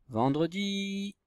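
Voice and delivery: softly sung-out, lingering syllables; drawn-out dictation. Shown as a demonstration. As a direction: sound the word out slowly while writing. Sounding out word while writing it.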